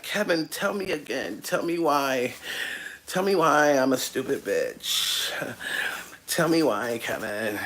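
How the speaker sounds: low, soft, swooning woman begging Kevin. Retold or imitated. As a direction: coo like a smitten fan, low and hushed. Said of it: "She's like".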